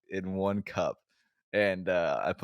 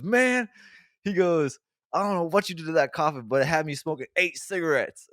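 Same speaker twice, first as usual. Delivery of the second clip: high and loud, laughing through the coworker's words; can't keep a straight face quoting him; real laughter while retelling; laughing quote; 9 semitones higher, 6 dB louder than usual. Retold or imitated. Quoting Larry while cracking up.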